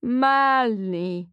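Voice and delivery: warbling robotic voice. Acted. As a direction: warble his name like a glitching robot. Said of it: "she warbles, sounding like a robot".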